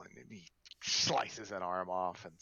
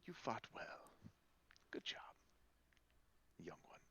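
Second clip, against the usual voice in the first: Quee speaking; 2 semitones higher, 13 dB quieter than usual. Acted. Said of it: "Quee'll turn to you and s".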